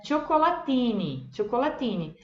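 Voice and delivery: cioccolatini with cho start and hard ti; Italian ci and ti. Shown as a demonstration. Teacher models cioccolatini. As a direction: say cioccolatini as cho-co-la-tee-nee. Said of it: "viram a diferença".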